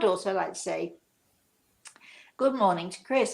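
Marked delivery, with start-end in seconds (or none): 2.4-3.3 slightly choked-up voice. Real, not acted. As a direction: voice catching with emotion. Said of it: "I don't know why I'm choking up a bit".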